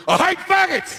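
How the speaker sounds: the clip cut out of context; God clip. Retold or imitated. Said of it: "edit that last routine down to".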